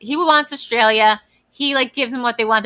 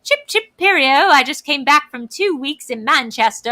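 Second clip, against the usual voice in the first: fake British accent; 3 semitones higher than usual. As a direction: play a coworker showing off a put-on British accent. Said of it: "trying on a fake British accent".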